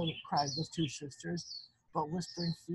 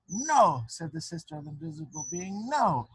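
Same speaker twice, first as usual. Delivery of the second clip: firm refusal; 5 dB louder than usual. Acted. Sister of the invisible being refusing the lying sisters, loud. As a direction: shut them down firmly.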